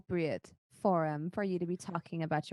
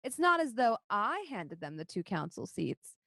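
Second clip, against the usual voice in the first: half-orc councillor; 4 semitones higher than usual. Acted. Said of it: "She says".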